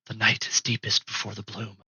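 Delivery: softly spoken secret password; hushed password. Acted. Coded password whispered at door.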